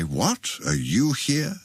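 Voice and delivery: surprised cry, pitch leaping up within a recited poem; questioning cry. A narrator's reading. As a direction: cry it out high, as another voice startled to meet you. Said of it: "heard another voice's cry".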